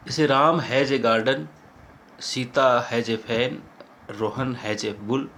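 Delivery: slow, spaced reading of each example; slow listing of examples. Shown as a demonstration. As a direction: set out each example for copying. Dictating example sentences. (उदाहरण धीरे-धीरे लिखवाना)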